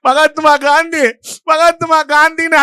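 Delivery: a mild imitation of crying while repeating the name; retold crying. Scared schoolboy on stage stalls before the collector, mildly imitated tearful pleading. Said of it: "அழுதுகிட்டே இறங்கிட்டேன்".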